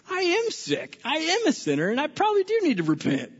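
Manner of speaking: humbled Levi. Retold or imitated. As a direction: break a little as you admit it. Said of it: "he's going".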